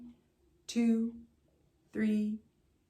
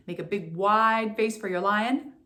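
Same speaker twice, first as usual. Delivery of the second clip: wide lion face; 4 dB louder than usual. Shown as a demonstration. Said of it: "lion lemon face".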